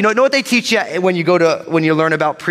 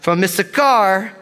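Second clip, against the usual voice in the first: confident roll call of Hebrew names; bold reading; 3 semitones higher, slower than usual. Real, not acted. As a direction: draw each name out, weight on its last syllable. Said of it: "gonna read these names with boldness".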